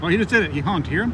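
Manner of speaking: excited. Real, not acted. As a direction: blurt it out thrilled. Excited at goose honk.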